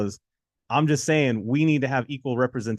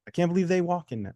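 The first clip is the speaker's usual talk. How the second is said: amazed relatives; 4 semitones higher than usual. Acted. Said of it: "your uncles and aunts come over and go".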